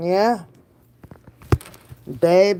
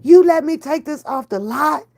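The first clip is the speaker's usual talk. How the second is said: higher, louder amazed gasp of a question; retold disbelief; 7 semitones higher, 4 dB louder than usual. Recalling the test drive to viewers, amazed. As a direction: act thrilled they let you drive off. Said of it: "And I was like".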